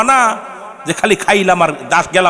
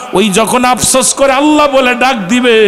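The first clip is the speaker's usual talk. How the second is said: ordinary talk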